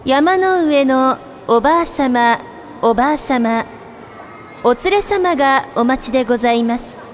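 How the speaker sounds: polite sing-song store paging voice; department store announcer. Acted. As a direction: page a customer over the store speakers. Repeated page over music.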